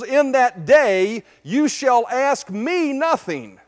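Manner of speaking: slow, weighty proclamation; emphatic scripture reading. Acted. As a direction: stretch out each word of the promise with authority. Reads Jesus's words to congregation.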